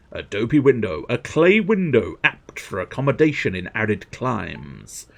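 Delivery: drawn-out item names, then grand description; hammed-up product presenter; showy catalogue read. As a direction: announce each item with relish. Reads item descriptions aloud.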